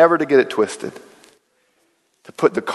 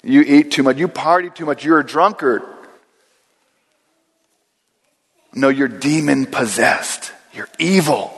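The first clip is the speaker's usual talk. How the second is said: mildly accusing voices. Retold or imitated. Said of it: "more of a negative tone".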